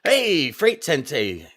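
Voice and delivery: loud, high burst of recognition; excited apologetic shout-out. Real, not acted. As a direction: hail an overlooked friend with a big, sudden lift. Realises he skipped a viewer, hails him.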